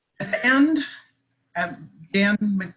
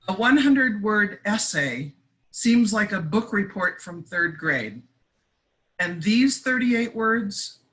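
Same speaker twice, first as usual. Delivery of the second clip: measured poem recital with pauses between phrases; poetry reading; 3 semitones higher than usual. Acted. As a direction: read your poem aloud, phrase by phrase. Reads own poem aloud.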